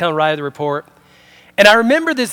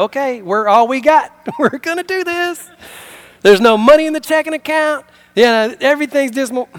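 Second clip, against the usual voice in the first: high-pitched resolve, drawn up tight; mock-earnest couple rallying each other; putting on a brave face; 6 semitones higher than usual. Couple facing tough years together, with strained resolve. Acted hard-times talk between spouses.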